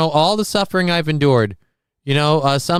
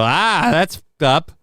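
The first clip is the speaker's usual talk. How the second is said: slow disgusted groan; 2 semitones higher, slower than usual. Pretend. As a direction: say it with open disgust. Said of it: "point at this person and go".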